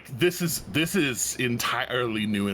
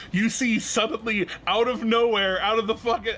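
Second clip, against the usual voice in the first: excited narration; 5 semitones higher than usual. Acted. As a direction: build up the surprise attack. GM builds dramatic reveal.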